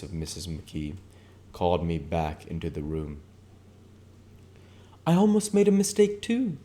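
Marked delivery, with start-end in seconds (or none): 5.0-6.6 very high, loud and firm; vigorous declaration. Acted. Mrs McKee declares to the room, loud. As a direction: declare it with force. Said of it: "she declared vigorously".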